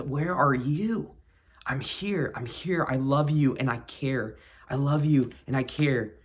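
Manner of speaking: gentle, reassuring answer; tender divine reply. Acted. The Lord comes back to us, tenderly reassuring. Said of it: "the Lord sometimes comes back to us".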